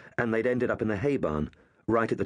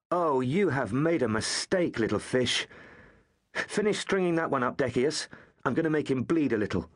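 menacing bully; 5 semitones higher than usual. Acted. Bully Tonius threatens the hanging boys, gloating menace. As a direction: savour the threat like a cruel boy.

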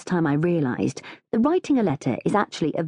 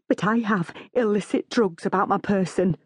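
higher, put-on confessional voice; dramatic gulping; 4 semitones higher than usual. A narrator's reading. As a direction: confess with a touch of melodrama. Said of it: "she gulps dramatically".

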